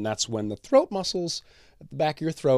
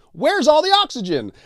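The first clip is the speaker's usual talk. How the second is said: much higher, panicky mock voice of the body; body freaking out; 5 dB louder than usual. The body waking without oxygen, mock panic. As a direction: squeal it as a startled body gasping for air. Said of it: "Your body then kind of freaks out and is like".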